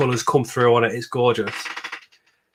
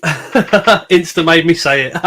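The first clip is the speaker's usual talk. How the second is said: laughing through the words, slowly; 3 semitones higher, 6 dB louder, slower than usual. Real, not acted. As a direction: giggle while owning up. Joking about forced compliment.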